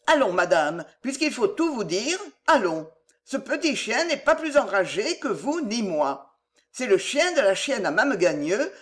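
lightly voiced old housekeeper confiding; a hint of a sly old servant; old countrywoman voice. La mère Fouillette avoue. (vieille servante qui avoue, voix légère)

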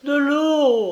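high, loud gasping cry for water; dying mother crying out for water; broken cry. Acted. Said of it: "d'une voix entrecoupée".

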